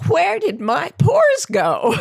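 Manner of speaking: high, slow amazed gasp of joy; slow, high delighted astonishment; shocked delight. Retold or imitated. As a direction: marvel at it like a thrilled ad model. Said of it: "in sort of shocked delight".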